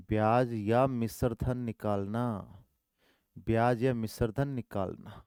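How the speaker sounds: drawn-out repeated phrase; slow dictation. Shown as a demonstration. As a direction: repeat it slowly so they write it. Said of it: "repeated slowly".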